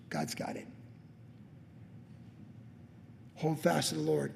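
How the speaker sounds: soft, subdued closing words; hushed pastoral exhortation. Acted. Pastor closing his sermon to the church, hushed exhortation. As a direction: quietly urge them to hold fast.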